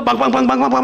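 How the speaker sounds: rapid vocalized drama sting; punchy "bang-bang" sound imitation; imitated swelling music. Shown as a demonstration. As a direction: hammer out climactic music by mouth. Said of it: "막 음악이 고조되면서".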